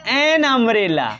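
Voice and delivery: slow dictation. Shown as a demonstration. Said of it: "teacher reads example slowly".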